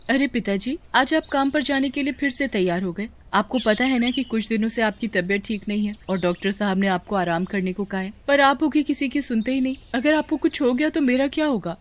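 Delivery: a touch of anxious fussing; worried daughter. Acted. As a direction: gently scold an ailing father.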